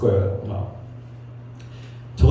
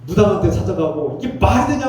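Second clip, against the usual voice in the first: re-enacted pastoral telling-off, higher pitched; angry rebuke; 4 semitones higher than usual. Pastor re-enacts scolding church members who visit fortune-tellers, angry. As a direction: scold them in disbelief, pitch raised. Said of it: "하면서 막 화를 내고".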